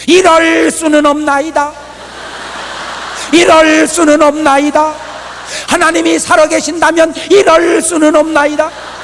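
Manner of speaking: hammed-up indignant plea to God; protesting prayer. South Korean believer's protesting prayer.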